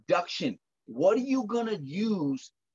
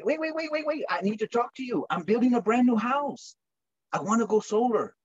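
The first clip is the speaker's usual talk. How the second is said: eager prospect; 5 semitones higher than usual. Retold or imitated. Prospect grabbing his arm.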